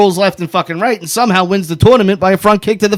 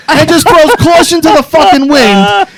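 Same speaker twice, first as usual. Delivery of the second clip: higher, worked-up comic outrage; heated rant; 7 semitones higher than usual. Real, not acted. Ranting to the co-hosts about the kicked gate, outraged. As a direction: rant in exasperated disbelief.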